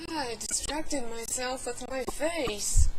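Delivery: slow, mildly exasperated groan of words; frustrated. Real, not acted. Lost the topic watching own face, frustrated. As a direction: drag it out in mild frustration. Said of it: "Now I'm frustrated".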